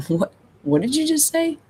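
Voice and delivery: high, stunned nervous laugh through the words; disbelieving, half-laughing as the news lands; shocked disbelief. Retold or imitated. Hearing that mom had died.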